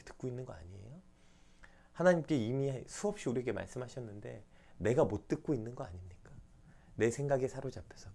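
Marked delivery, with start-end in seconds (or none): none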